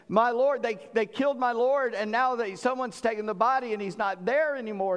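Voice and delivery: a preacher's hint of tearful distress; mock weeping. Mary at the tomb tells Jesus of the missing body, lightly acted grief. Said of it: "She was crying and weeping".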